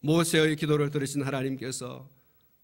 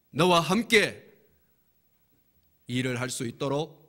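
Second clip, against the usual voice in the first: authoritative command; 4 semitones higher, 3 dB louder than usual. Acted. God commands Moses with authority.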